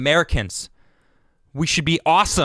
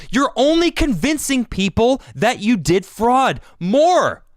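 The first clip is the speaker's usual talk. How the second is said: heated, higher and pressing demands; exasperated rant; 6 semitones higher than usual. Real, not acted. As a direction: demand answers, fed up and rising. Angry rant at Democrats.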